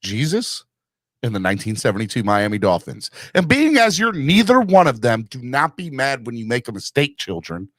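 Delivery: lightly voiced mock-stern parent; a hint of solemn fatherly sermon; parent lecturing kids. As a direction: deliver a tongue-in-cheek lecture to your children. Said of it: "I say that to my kids all the time".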